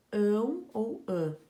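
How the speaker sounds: loud, slow call of the endings; loud slow reading. Shown as a demonstration. Teacher calling out the word endings to the class, loud. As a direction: read the endings out strongly. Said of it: "reading endings aloud".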